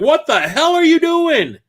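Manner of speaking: high, slow mock yell; retold yell. Streamer yelling at the cashier breaking the case, high slow yell. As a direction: drag out the outrage, high and loud. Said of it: "I screamed at her".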